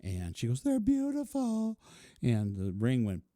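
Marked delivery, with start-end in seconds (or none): 0.6-1.8 high, slow dreamy voice; a drawn-out high coo; imitating fiancee. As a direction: coo it like she's charmed.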